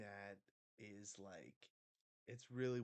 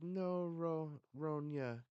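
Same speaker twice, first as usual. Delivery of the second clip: put-on higher, louder children's protest; kids protesting; 8 semitones higher, 7 dB louder, slower than usual. Kids answer Ronya's apology, protesting. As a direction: cry out as upset kids, acted.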